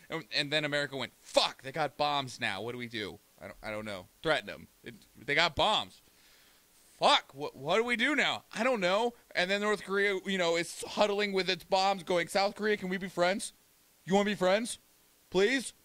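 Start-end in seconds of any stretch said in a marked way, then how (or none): 1.2-9.1 hammed-up flustered panic, voice climbing; mock panic. Streamer voicing America panicking over bombs, mock flustered. 12.3-15.7 higher, wheedling mock plea; mock pleading. North Korea courting South Korea, higher wheedling plea.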